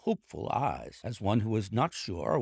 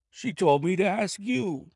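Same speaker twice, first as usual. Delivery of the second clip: high, louder whine; whining protest; 11 semitones higher, 6 dB louder than usual. A narrator's reading. Little man answering the angry salesman, whining protest. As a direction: plead your case in a high voice.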